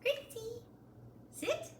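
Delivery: high call, then the command; name called high, then sit; firm dog commands. Shown as a demonstration. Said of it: "If we were working on something like".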